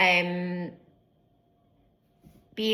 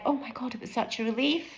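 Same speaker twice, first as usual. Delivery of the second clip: emotional; 5 semitones higher, 4 dB quieter than usual. Real, not acted. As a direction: voice lifting with real emotion as she speaks. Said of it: "Feeling quite emotional, speak it, just now".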